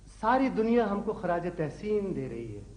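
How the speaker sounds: poet reciting with stretched line endings; declaimed couplet. Acted. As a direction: declaim it like verse at a mushaira. Son repeats couplet for encore.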